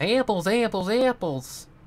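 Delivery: very high, loud Southern pony voice. Running through the voices they do for each pony character: Apple Bloom voice. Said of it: "but more high pitch".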